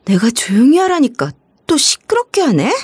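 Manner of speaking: whispering a threat at the frightened mother; threatening whisper. Acted. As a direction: hiss the threat under your breath.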